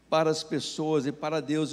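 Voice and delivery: ordinary delivery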